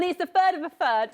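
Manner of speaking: "third" turned into "furd"; F for TH in both "third"s, Cockney style; awkward mock Cockney. Shown as a demonstration. Reporter explaining the festival date, awkward mock Cockney "furd". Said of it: "I sound so awful when I say that".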